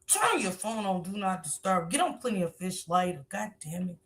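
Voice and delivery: a hint of a cursing, exasperated mom; imitating the mother. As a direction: grumble it like an irritated mother scolding. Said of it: "I put on the top of my".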